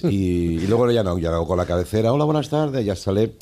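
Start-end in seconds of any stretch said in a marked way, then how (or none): 2.1-2.8 saludo de presentador, bastante más agudo; presentador de protocolo. Retold or imitated. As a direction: imita una cabecera de programa, con el tono muy arriba. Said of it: "el protocolo de presentadores". (voz aguda de presentador que abre programa)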